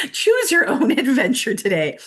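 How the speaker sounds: laughing through the words. Real, not acted. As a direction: giggle while saying it. Laughing at her own pitch.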